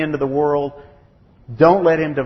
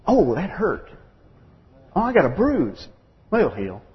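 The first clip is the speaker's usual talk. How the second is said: lightly whiny mock complaint over a bruise; mock whining; 3 semitones higher than usual. Preacher mocking paintball players whining about bruises. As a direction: play down a tiny hurt.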